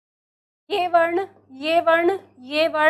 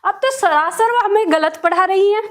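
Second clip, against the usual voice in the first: a hint of know-it-all class chanting back; protesting students. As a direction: mimic students who think they know it all. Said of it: "अभी कहेंगे".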